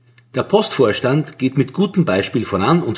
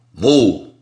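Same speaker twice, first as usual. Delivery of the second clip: surprised; 4 dB louder than usual. A narrator's reading. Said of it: "fragt der Vorstand überrascht".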